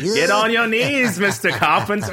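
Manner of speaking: high, loud teasing creep voice; mock creepy voice. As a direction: play a creepy seducer. Mock knighting bit.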